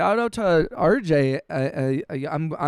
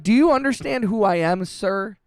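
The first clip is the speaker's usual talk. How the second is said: raised-pitch affronted retort; mock indignation; 5 semitones higher than usual. Streamer acting out friend's retort to a robber, mock affronted. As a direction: act out an indignant self-important comeback.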